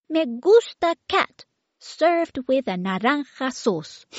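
put-on very high, demanding little-girl voice; baby voice. Baby demands yummy food from the children, very high and bossy. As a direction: play a bossy toddler ordering food. Baby's voice.

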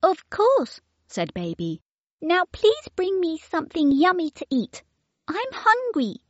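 put-on very high, demanding little-girl voice; baby voice. Baby demands yummy food from the children, very high and bossy. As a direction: play a bossy toddler ordering food. Baby's voice.

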